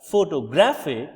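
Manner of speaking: photo-GRAPH-ic, loud on the graph; stress on GRAPH in photographic. Shown as a demonstration. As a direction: push the graphic part of photographic. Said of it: "the part graphic receives".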